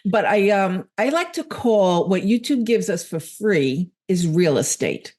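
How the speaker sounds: tired, hoarse voice after hours of talking; worn-out voice, losing it. Real, not acted. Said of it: "so all of a sudden I'm losing my voice".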